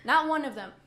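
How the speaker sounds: loud, emphatic denial; indignant. Real, not acted. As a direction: flatly reject it, indignant and loud. Indignant about the patient's remark.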